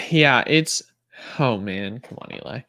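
fighting off a sneeze mid-sentence; holding back a sneeze. Real, not acted. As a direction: talk while stifling a sneeze. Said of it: "I'm trying not to sneeze".

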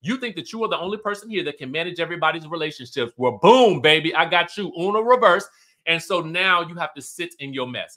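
hammed-up gloating comeback; sassy clapback. Bronwyn to Heather, gloating as she turns it back. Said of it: "Bronwyn is like".

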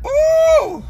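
surprised ooh. Real, not acted. Reacting to a strong drink.

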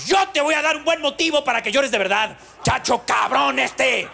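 imitated furious mom; angry parent threat. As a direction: belt out the threat while pulling the belt. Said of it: "con la siguiente frase".

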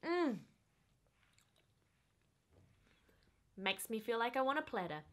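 muffled closed-lip speech; talking while eating; chewing with mouth full. Real, not acted. Seen 0: Olive placed in mouth at -3; lips pursed, chewing throughout.

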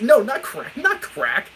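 high, loud amused denial; laughing protest. Real, not acted. Laughing protest at chat's guess.

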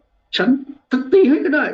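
high, drawn-out exasperated retort; losing composure. Acted. Preacher as Moses about to strike the rock, exasperated. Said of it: "ขาดสติแล้ว ไม่รู้ว่า".

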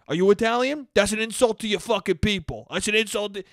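mildly heated mock indignation; taking it too seriously. Imitating the insulted man confronting someone over Fredo, mock indignant. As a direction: imitate an offended man, slightly worked up. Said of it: "he takes it all too seriously".

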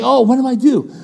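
high-pitched helpless dithering; helpless king. Acted.

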